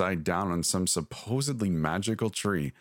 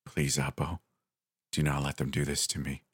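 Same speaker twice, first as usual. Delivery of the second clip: put-on soft, low, begging old woman; pleading grandmother; 4 semitones lower, 3 dB quieter than usual. A narrator's reading. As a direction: plead weakly for mercy, a little lower. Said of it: "my grandmother pleaded".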